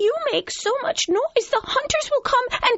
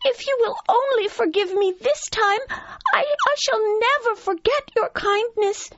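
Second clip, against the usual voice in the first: very high squeaky pleading; frightened mouse; 13 semitones higher than usual. Acted. Mouse promising the lion a favor if spared, frightened. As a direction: stammer and beg in a tiny high voice. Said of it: "cried the frightened mouse".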